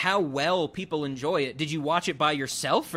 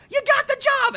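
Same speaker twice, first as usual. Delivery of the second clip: even higher, louder goofy yell; bigger goofy Tom Green shout; 7 dB louder than usual. Retold or imitated. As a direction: top the first one, go over the edge. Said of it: "like, doing voices where he's like".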